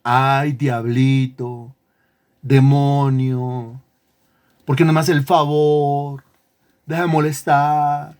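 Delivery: a hint of slow pampering coaxing, not a true command; mild mock pleading with a demon, drawn out. Preacher mocks pampering a demon, pleading. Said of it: "consintiendo al demonio".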